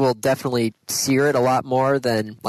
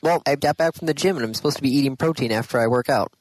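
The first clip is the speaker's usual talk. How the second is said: chewing while talking; faster than usual. Real, not acted. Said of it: "if you hear me eating something".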